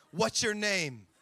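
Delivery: hammed-up mysterious question; mock movie drama. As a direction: imitate a portentous movie character. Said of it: "Why do we move into a dramatic movie?".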